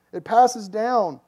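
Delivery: slow, loud and high; emphatic. Real, not acted. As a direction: drive it home slowly. Preacher emphasizing.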